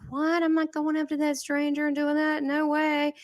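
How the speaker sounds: high, disbelieving what, no way; incredulous what. Retold or imitated. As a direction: balk at going up to a stranger. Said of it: "and you're like".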